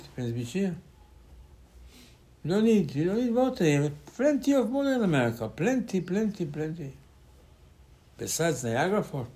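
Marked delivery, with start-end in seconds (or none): 2.4-6.9 higher, teasing plenty plenty; mock envy. Rabbi teasing Americans about their water, higher mock envy. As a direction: rib them about having too much water.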